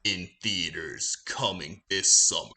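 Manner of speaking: low, dramatic trailer narrator with weighty breaks; movie trailer voice. Acted. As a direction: announce it like a blockbuster trailer, dropping low. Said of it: "like, movie trailer voice".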